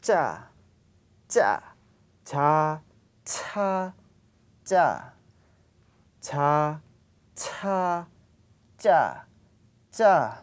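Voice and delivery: tight cha after building up air; tensed cha. Shown as a demonstration. Teacher drilling tensed cha. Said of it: "you build up your air".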